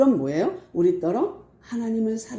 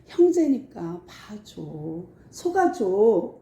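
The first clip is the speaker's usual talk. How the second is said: gentle plea; much slower than usual. Retold or imitated. Voicing the plea to forgive.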